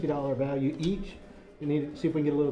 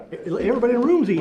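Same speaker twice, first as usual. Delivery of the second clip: laughing; 8 semitones higher, 7 dB louder, much faster than usual. Real, not acted. Amused call-out, room eating samples.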